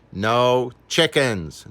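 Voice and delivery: slow, firm, final; firm refusal. Acted. Landlady to Mister Piper, slow firm refusal. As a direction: lay down the rule, slowly. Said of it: "declared the landlady firmly".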